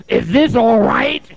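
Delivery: high, loud, drawn-out question; imitated calling out. Client beating pillow asks group, loud strained question.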